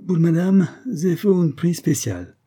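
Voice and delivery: put-on high, loud Italian-accented sales pitch; slow, lifted merchant's flourish; Italian shopkeeper. A narrator's reading. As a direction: declare a special favour, Italian vendor style. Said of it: "déclara l'Italien".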